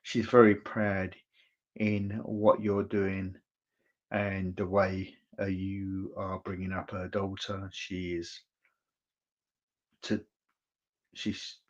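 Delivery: slow, emotional delivery; moved, drawing the words out slowly. Real, not acted. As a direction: pass it on slowly, with feeling. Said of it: "I'm getting emotional here".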